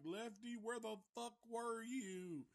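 high, angry mock demand; shrill it out like a frantic woman; imitating Stretch. Stretch confronts the late Lefty, high mock demand. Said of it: "She's like".

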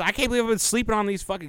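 high and fast mock excitement; hammed-up thrill; excited disbelief. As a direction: rattle it off up high, fired up. Retelling YouTuber's excitement.

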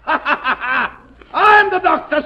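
slow, laughing contempt; slow, scornful laugh through the words. Acted. Boland laughs at being cured.

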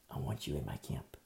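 low, soft divine summons; the Lord's call. Acted. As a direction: say it low and quietly, as the Lord calling. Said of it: "the Lord is confronting you".

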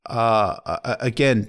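ordinary delivery

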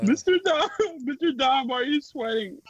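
mock student voice. Mocking student voice to teacher.

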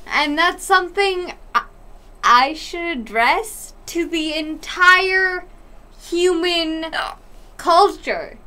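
talking through hiccups. Real, not acted. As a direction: hiccups breaking the flow. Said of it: "shut up. The fuck about the hiccups".

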